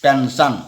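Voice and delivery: पेंशन with a palatal sibilant before the final syllable. Shown as a demonstration. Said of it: "तो तालंब स्व होगा".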